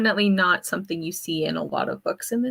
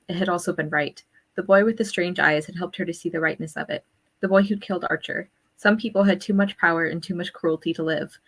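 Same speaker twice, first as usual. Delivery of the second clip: a passage read aloud, steady and even. Acted. Reading the novel's last page to the book club, even and measured. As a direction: read the book's words to the group, unhurried.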